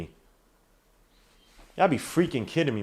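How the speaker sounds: soft, very slow, drawn-out disbelief; slow exasperation. Real, not acted. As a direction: space out "freaking kidding me" in disgust. Disgusted repeat, drawn out.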